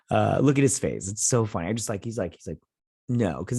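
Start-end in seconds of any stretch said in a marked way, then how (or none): 3.1-3.4 imitating an emotionless "No"; no emotion. Imitating the psychopath's reply about killing, no emotion. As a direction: answer without any feeling. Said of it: "he has, like, no emotion".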